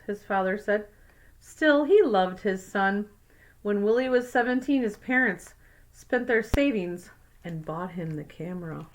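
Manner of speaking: put-on clear, even read-aloud voice for kids; story narration. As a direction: read it like a picture book to a class. Reads picture book aloud.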